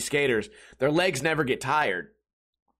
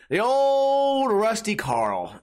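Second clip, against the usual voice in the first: mock-fond; 7 semitones higher, 3 dB louder, much slower than usual. Real, not acted. Fond mock name for restaurant.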